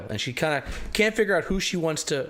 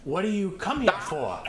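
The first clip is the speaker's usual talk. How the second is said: searching voice; 4 semitones higher, 4 dB quieter than usual. Acted. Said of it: "her voice trying to move around".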